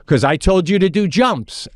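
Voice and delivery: high, emphatic comeback; stern coach. Retold or imitated. Coach answering a ten-year-old's protest, high and exasperated.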